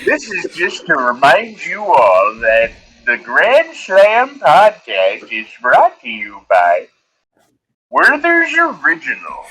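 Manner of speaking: slow, deliberate sponsor read with drawn-out pauses; milk each phrase like a cheesy candy commercial; mock ad read. Podcast host reads a joke sponsor spot to listeners, mock ad read.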